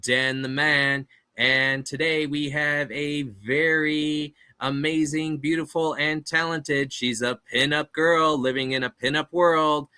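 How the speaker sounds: big booming ring intro; boxing ring announcer. Acted. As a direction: hype up the crowd like a fight night announcer. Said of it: "That's my ring announcer voice".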